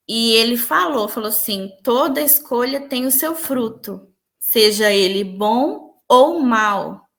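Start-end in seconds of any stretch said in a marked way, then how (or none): 1.8-7.1 calm voice. Retold or imitated. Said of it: "Era uma voz muito tranquila".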